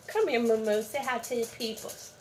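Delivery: soft, sing-song coaxing to a cat. Real, not acted. Owner coaxing her cat to greet viewers, soft baby talk. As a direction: coo at the kitty softly.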